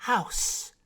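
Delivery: high lightly voiced mermaid repeating "House". A narrator's reading. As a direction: try the word out.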